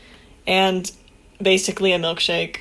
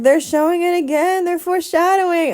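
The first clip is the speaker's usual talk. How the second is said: higher, louder exclaiming; excited; 8 semitones higher, 5 dB louder than usual. Retold or imitated. Fan retelling her reaction to anime clues, excited. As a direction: announce the clue excitedly. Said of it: "And then I'm like".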